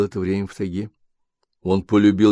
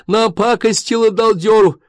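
much higher, slow, sneering; scornful wife; 13 semitones higher, 5 dB louder than usual. Acted. Wife sneering at husband, high and slow. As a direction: drag out the insult.

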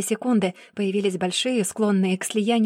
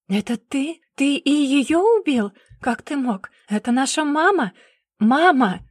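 high, loud anguished cry; horrified cry; 5 semitones higher, 4 dB louder than usual. Acted. Sister discovering her brother killed mother, anguished shout. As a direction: cry out in horror at him.

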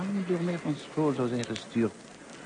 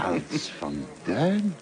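slow, amazed echo of the name; drawing out the name in disbelief; surprised recognition; much slower than usual. Acted. Old teacher recognizing his pupil, amazed.

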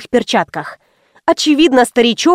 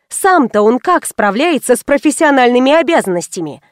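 ordinary delivery

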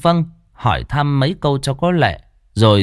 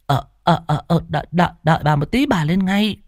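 a lightly voiced old woman calling back; old woman answering; 6 semitones higher, faster than usual. Bà Nhâm answers Nga from the back, lightly voiced old woman. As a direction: answer hurriedly from afar.

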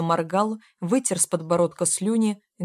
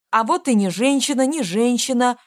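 put-on high, loud childish squeal; man-child yelling from under the counter, thin and shrill-pitched; 5 semitones higher, 5 dB louder than usual. A narrator's reading. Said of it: "тоненько завопил".

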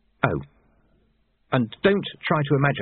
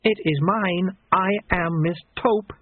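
shouting; 8 semitones higher, slower than usual. Acted. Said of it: "shouted the woman in grey".

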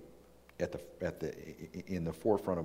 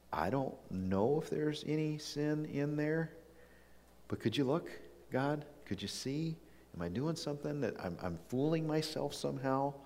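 pleading prayer; 8 semitones higher than usual. Retold or imitated. Preacher voicing David asking God to search him, high pleading. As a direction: ask God to look inside you, higher and pleading.

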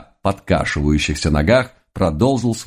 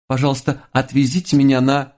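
put-on falsetto girl voice; 7 semitones higher than usual. Disguised girl asks for cab.

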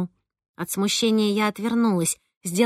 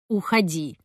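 muffled; 4 semitones lower, 3 dB quieter than usual. Acted. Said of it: "Ромкин голос звучал глухо из-за стекла".

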